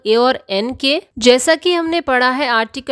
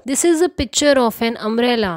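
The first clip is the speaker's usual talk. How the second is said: slow example sentence; much slower than usual. Shown as a demonstration. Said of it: "अब हम आते हैं".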